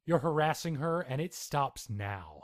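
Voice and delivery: angry lawyer voice; angry accusation. Acted. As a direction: push back hard at the detectives. Lawyer confronts detectives.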